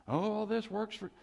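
high-pitched pat consolation; mock a well-meaning platitude; glib comforter. Mimics unwelcome platitude to the hurting.

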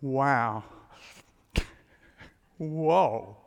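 breathless wonder, drawn-out whoa; a man dumbstruck by beauty; explosive surprise. Acted. Adam seeing Eve for the first time, amazed whoa. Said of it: "something like".

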